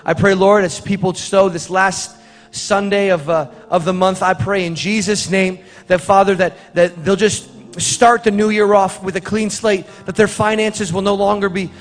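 earnest church prayer, lightly lifted; offering prayer. Acted. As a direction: pray over the offering with conviction.

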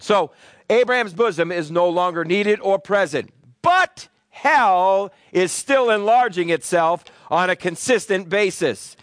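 measured sermon delivery with drawn-out key words; emphatic preaching. Real, not acted. Preacher explaining Abraham's bosom to the congregation, emphatic preaching. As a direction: preach it firmly, phrase by phrase.

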